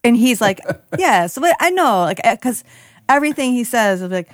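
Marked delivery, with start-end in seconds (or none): 1.0-2.0 put-on Italian accent. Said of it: "he sounds like somebody making fun of an Italian accent".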